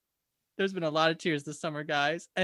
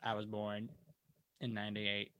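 much lower, softer put-on hick voice; Matilda voice; 8 semitones lower, 9 dB quieter than usual. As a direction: drop low and play the hick Matilda. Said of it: "You have to say it in the Matilda voice".

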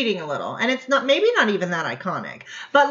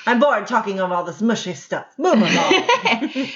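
put-on old-timey voice. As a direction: speak like someone from an old film. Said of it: "Why don't I keep talking in this old-timey voice today?".

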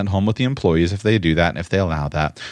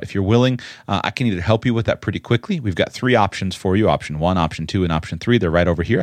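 helpful owner. Acted. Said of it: "which of these is the employee and which of them is the owner".

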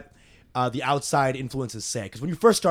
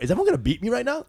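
laughing mock panic; 5 semitones higher, faster than usual. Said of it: "I'm like".

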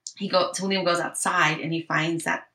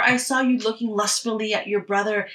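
mock accusation; 3 semitones higher than usual. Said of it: "she's like".

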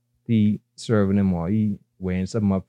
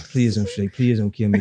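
begging for my life. Retold or imitated. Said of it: "just begging for his life".

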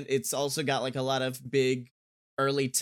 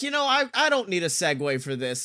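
building to a laughing shout; excited shout; 4 semitones higher, 4 dB louder, faster than usual. Retold or imitated. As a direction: blurt it out, laughing and loud. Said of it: "I was like".

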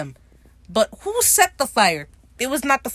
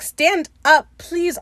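higher, louder begging cry; pleading shout; 8 semitones higher, 6 dB louder, much slower than usual. Real, not acted. Viewer yelling at Ed on screen, pleading shout. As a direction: beg the character to do better.

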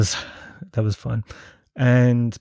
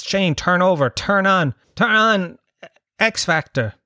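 higher, insistent, climbing with each repeat; urgent messages; 6 semitones higher, slower than usual. Retold or imitated. Friends texting Shane to switch channels, acted out urgently. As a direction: press harder on each "turn on".

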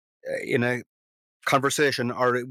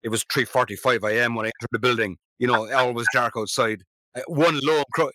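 detective voice. Shown as a demonstration. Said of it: "I was going for the kind of detective voice".

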